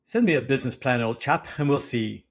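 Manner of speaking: put-on upper-class British accent; mock posh British. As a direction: play a posh British chap. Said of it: "accent that I had been assured was very upper class Brit".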